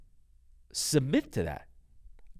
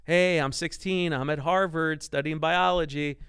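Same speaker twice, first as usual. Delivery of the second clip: higher-pitched, eager announcement to dad; hopeful kid voice, pitched up; eager son; 4 semitones higher, 3 dB louder than usual. Retold or imitated. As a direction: imitate a kid proudly reporting news.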